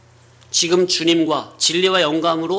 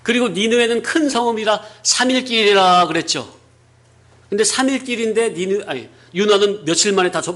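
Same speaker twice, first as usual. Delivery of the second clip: usual speaking voice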